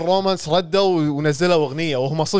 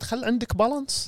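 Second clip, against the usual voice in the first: quoting friend Owaid; 9 semitones higher, 6 dB quieter than usual. Retold or imitated. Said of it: "ما قال صديقنا عويد".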